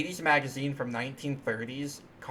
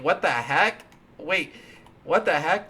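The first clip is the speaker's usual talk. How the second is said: surprised; 3 semitones higher, 7 dB louder than usual. Real, not acted. Surprised by code result.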